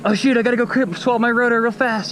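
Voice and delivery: high-pitched panicky self-imitation; frantic rush, played for laughs; mock frantic. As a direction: act out getting flustered in a hurry. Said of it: "I got all frantic".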